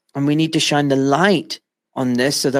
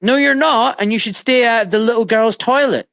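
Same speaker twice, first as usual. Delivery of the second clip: raised scornful retort; scoffing retort; 7 semitones higher than usual. Retold or imitated. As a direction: scoff at him with mock outrage. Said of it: "I'm gonna laugh and say".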